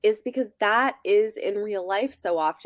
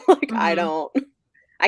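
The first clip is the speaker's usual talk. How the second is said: laughing mock boyfriend; 6 dB louder than usual. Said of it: "They're like".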